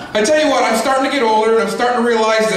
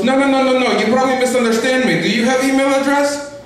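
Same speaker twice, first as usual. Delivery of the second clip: foreign telemarketer impression; 5 semitones higher than usual. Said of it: "He goes".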